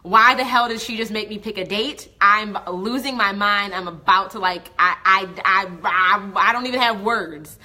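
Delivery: loud, frantic venting to a friend; freaked-out rant. Retold or imitated. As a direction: blurt it out like you're losing your mind. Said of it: "call it Jordan and be like".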